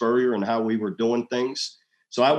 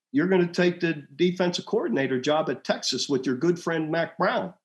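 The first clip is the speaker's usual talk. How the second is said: higher, pointed accusation; accusing wife; 6 semitones higher than usual. Retold or imitated. Wife accusing husband of taking the Texas job. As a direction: voice the wife calling him out. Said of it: "she goes".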